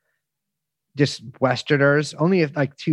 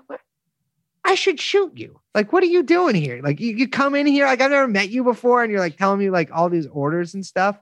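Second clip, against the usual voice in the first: pitched much higher, mock outraged disbelief; replaying an indignant rant, way up in pitch; retold indignant outburst; 9 semitones higher than usual. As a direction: fire back at the stranger giving orders, voice jumping up high. Retold outburst at intruding German.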